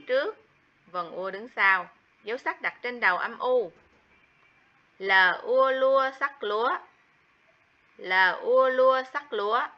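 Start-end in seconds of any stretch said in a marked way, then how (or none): 5.0-9.7 đánh vần "L ua lua sắc lúa" rõ từng phần; tách "L", "ua", "lua", rồi thêm dấu sắc thành "lúa"; spelling out lúa. Shown as a demonstration. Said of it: "Tiếng lúa". (đánh vần mẫu "L ua lua sắc lúa")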